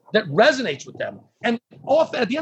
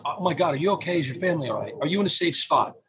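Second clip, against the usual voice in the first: caring phone voice; 3 semitones lower than usual. Shown as a demonstration. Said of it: "with my tone, my intonation".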